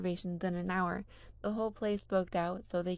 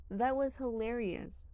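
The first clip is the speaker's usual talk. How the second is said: crowing; 4 semitones higher than usual. Acted. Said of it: "crows Niall".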